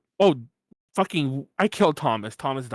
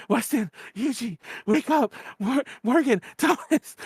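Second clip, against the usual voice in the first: higher calling to wake friends; 6 semitones higher than usual. Retold or imitated. Hungover on the floor calling friends awake. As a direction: call them to wake up.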